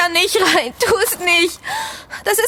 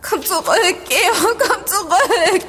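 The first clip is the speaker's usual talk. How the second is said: sobbing plea; slower than usual. Acted. Begging friend to return.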